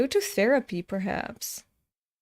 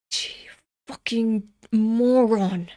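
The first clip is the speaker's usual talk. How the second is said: exasperated mutter; slower than usual. Real, not acted. Sighing muttered curse.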